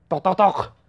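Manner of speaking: spoken knock-knock noise; knocking sound. Pretend. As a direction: knock on the door with your voice. Imitates knocking at a door.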